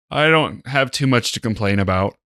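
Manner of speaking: talking through a yawn. Real, not acted. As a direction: yawn mid-sentence, tired. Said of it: "I'm yawning because I'm so freaking tired".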